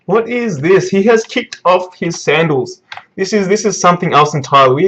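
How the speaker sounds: mildly hyped, animated disbelief; excited amazement. Real, not acted. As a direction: marvel at a dramatic reveal. Reacting to manga reveal.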